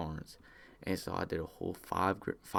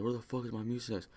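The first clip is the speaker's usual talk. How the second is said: higher-pitched imitation of an irate grandpa; mock agitated demand; 5 semitones higher than usual. Grandpa confronts him over the missing pills, mock agitated demand. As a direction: demand it high, without shouting.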